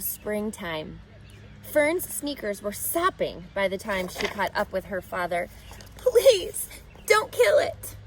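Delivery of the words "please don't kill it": put-on high, pleading child's cry, near tears; sobbing plea. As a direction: beg him not to kill it, a hint of sobbing. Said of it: "she sobbed".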